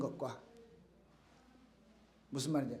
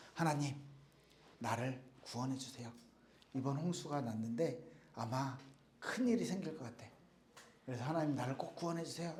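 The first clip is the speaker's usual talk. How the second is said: low, soft, earnest prayer under the breath; hushed prayer; 4 semitones lower, 8 dB quieter than usual. Acted. Man on the roof praying to God during the flood, hushed. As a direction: pray quietly as if alone on the roof.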